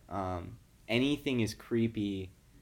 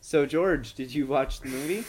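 loud, higher-pitched host opener; mock show host; 4 semitones higher, 6 dB louder than usual. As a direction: kick off the bit as an upbeat host. Playing host after announcer intro.

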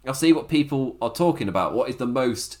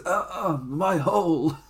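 half-hearted imitation of a pained cry; mildly raised, held-back mock moan; Nia Jax; 4 semitones higher, slower than usual. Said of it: "trying to do the Nia Jax things".

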